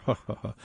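soft, put-on little laugh; light mock chuckle. Mimicking a professorial reporter's humor, soft fake chuckle. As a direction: let out a quiet imitation chuckle. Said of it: "light sense of humor".

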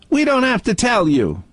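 high, robotic monotone refusal; robotic Dalek bank. Retold or imitated. Host mocking the bank's refusal, high robotic monotone. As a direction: drone it like a cold machine.

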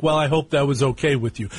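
quick, offhand imitation of mother; vague mother.

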